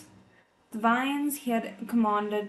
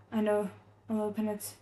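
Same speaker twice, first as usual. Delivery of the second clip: hoarse mumble; faster than usual. Acted. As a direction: mumble it, voice catching. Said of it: "he mumbled hoarsely".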